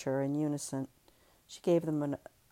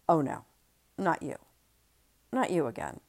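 weary. Acted. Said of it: "Ellie said wearily".

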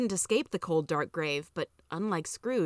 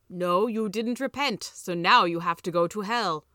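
slow, firm pronouncement; lightly voiced heavenly judge; stern angel; 4 dB louder than usual. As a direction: pass judgement with measured weight. Angel passes judgement on Scrooge.

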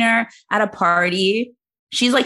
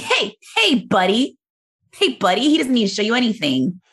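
mock inner-Karen indignation; hands-on-hips telling-off, lightly hammed up; acted affront, high on the opening heys; indignant and angry; 3 semitones higher than usual. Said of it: "I'm indignant and angry".

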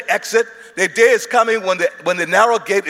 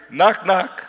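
American knock. Shown as a demonstration. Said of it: "The American, the American knock is".

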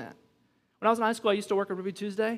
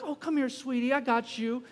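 mock sweet mom voice; 3 semitones higher than usual. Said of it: "when you're in public".

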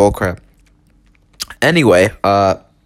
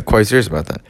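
laughing; 5 semitones lower, much faster than usual. Shown as a demonstration.

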